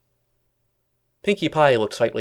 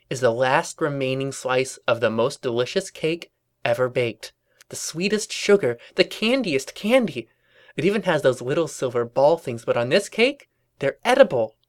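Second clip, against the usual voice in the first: lightly voiced cartoon sales pitch; tempting Pinkie; 3 semitones higher than usual. Pinkie tempting Twilight with cake, lightly voiced enticement. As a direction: build from hushed awe to higher delight.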